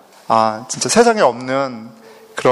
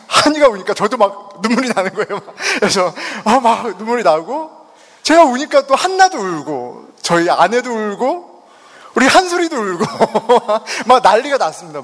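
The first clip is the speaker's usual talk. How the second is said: higher-pitched, laughing recollection; amused telling; 5 semitones higher than usual. Real, not acted. Speaker recounting the whole family crying, amused and laughing. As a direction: tell it half laughing, voice pitched up.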